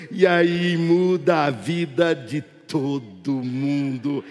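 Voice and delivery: swelling preacher's crescendo; building climax. Real, not acted. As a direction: start measured and climb to a ringing shout.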